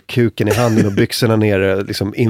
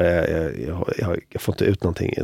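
timid stammer; 7 semitones lower, 9 dB quieter than usual. Retold or imitated. Can't pee, stammering to officer.

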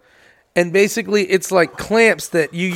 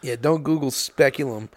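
low deadpan; 6 semitones lower, 7 dB quieter than usual. Real, not acted.

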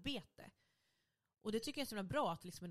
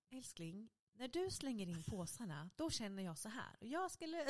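imitating partner; 4 semitones higher than usual. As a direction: act out a partner's rehearsed gentle request. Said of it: "Så då tränade han på mig".

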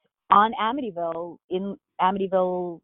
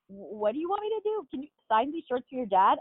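higher-pitched, mildly uneasy retelling; retold awkwardness, pitched up at first; uncomfortable; 4 semitones higher, 3 dB quieter than usual. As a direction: lightly act out an awkward question. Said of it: "feeling a little uncomfortable about this".

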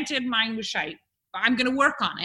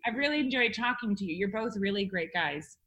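put-on quick, quiet Liverpool accent; Scouse accent; 8 dB quieter than usual. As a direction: rattle it off in Scouse. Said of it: "your Scouse".

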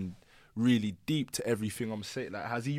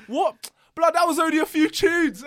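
retold baffled fan; 6 dB louder than usual. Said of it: "He's like".

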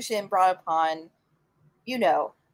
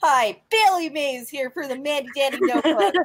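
TV pitchman; 5 semitones higher, 3 dB louder than usual. Retold or imitated. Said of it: "God rest his soul".

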